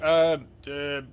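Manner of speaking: flustered guard blurting the arrest; nervous guards trying to seize Krennic; stammering guard. Acted. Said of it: "And they're like".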